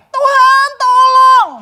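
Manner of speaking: high, loud shout to God; tenor shout. Acted. Desperate believer screaming his prayer at God in tenor. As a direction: belt it out in a strained tenor. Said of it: "udah pakai suara tenor".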